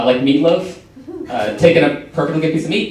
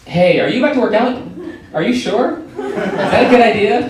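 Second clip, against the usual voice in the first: higher-pitched, doubting Apple Watch voice; mock taunting; 6 semitones higher than usual. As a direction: question it teasingly, pitch lifting. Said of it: "has started taunting me about it".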